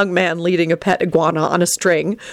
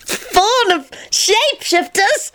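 high, slow amused question; merry repeat; 14 semitones higher, slower than usual. Acted. Teddy repeating Tony's insult, amused and high. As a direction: savor the phrase with delight. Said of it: "he repeated merrily".

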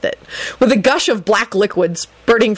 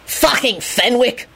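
yelling; 5 semitones higher, slower than usual. Acted. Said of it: "Lupin yelled".

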